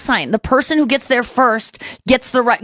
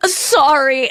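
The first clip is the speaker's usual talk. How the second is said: higher, over-polite sorry; mock apology; 5 semitones higher than usual. Dog owner to the person sniffed, mock-apologetic. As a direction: imitate a needlessly apologetic owner.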